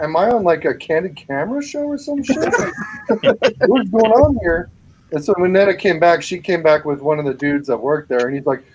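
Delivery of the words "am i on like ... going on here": retold outrage dissolving into high giggles; telling the story while cracking up; laughing disbelief. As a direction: laugh through the words in mock disbelief.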